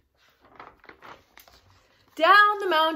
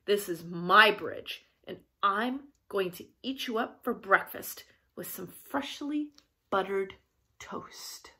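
low troll voice, fading softer; menacing troll; 4 semitones lower, 4 dB quieter than usual. Acted. Troll threatens baby goat with breakfast, low menace. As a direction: lower it and savour the threat.

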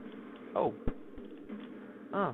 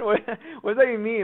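ordinary talk

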